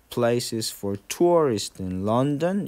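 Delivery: "for" and "in" weak, slow linking; unstressed prepositions. Shown as a demonstration. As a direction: glide over "for" and "in". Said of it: "인도 강세가 없죠". (for와 in을 약하게 붙여서)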